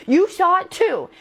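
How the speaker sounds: high, loud and slow, stretching it out; desperate girl pleading with the nurse; frantic insisting. Retold or imitated. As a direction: plead for it to be true.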